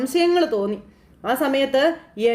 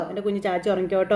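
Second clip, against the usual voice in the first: put-on lower, softer, lulling the child to sleep; 4 semitones lower, 4 dB quieter, faster than usual. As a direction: hush her off to sleep.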